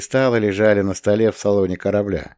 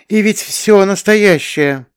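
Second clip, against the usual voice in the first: marvelling; 11 semitones higher, 5 dB louder, slower than usual. A narrator's reading. Charlotte marvels.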